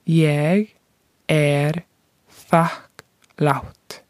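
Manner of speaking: word by word, with clear pauses between; slowed-down phrase demonstration for learners. Shown as a demonstration. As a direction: say it slowly, one separate word at a time. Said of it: "I'll say it again slower".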